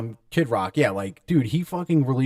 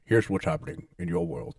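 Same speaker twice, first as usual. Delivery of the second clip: news anchor impression. Friend echoes the mock news anchor intro. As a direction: deliver it like the evening news. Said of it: "news anchor voice again".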